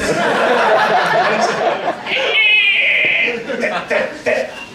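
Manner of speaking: high squeal, then little popping noises; straining child squeal. Acted. Comic imitating the girl on the toilet, straining squeal. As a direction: mimic a small child pushing.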